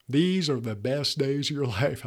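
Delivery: mock Southern accent, breaking into a laugh; hammed-up Southern adult, laughing mid-line. Adults lecturing teenagers, mock Southern accent with a laugh. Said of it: "I went Southern there in that voice".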